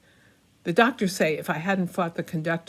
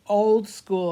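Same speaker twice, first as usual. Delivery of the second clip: hammy stage actor; 4 semitones higher, 7 dB louder than usual. Acted. Narrator's retort, loud.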